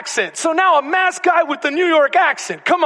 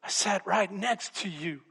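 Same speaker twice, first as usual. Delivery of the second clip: hurt reproach; 3 semitones higher than usual. Retold or imitated. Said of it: "And he says".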